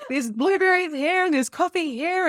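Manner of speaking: high, laughing mock panic; husband freaking out. Telling about her husband, a laughing mock-panicked imitation. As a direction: play up his horror at the stains, laughing. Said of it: "he's like".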